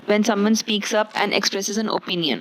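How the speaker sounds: very slow, deliberate reading; slow dictation pace; slow example read. Shown as a demonstration. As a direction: spell it out slowly for students. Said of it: "इसका English में मतलब लिखा हुआ है".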